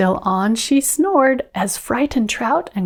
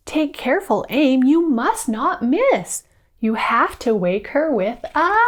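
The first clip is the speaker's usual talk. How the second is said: excited fairy voice; 4 semitones higher than usual. Acted. Fairies voiced in story.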